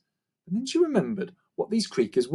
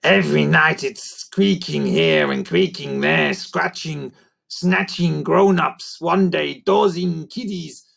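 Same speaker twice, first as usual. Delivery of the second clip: holding back laughter; 3 semitones higher, slower than usual. A narrator's reading. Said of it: "trying not to laugh".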